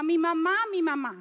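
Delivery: imitating a girl calling out for her mother; retold scream. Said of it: "que gritaba".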